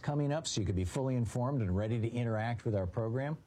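polished radio promo read. Acted. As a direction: pitch the free newsletter to listeners. Host's recorded newsletter promo.

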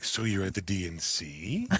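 curious question with a long rising end; lightly voiced eager bartender, lilting up; mildly excited bartender. Bartenders quiz a convention visitor, mildly excited. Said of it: "they were also enthusiastic and excited".

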